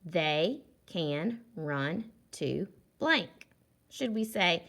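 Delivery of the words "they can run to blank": They can run to blank, read very slowly; teacher reading the gap sentence; slow reading aloud. Shown as a demonstration. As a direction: drag each word out for the children. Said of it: "This sentence says".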